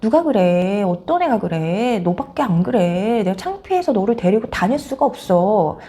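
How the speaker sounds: exasperated mock tirade; acted fed-up mother's scolding; mother berating child. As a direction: start sharp, then grind on in disgust.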